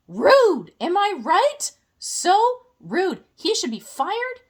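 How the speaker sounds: mock outrage.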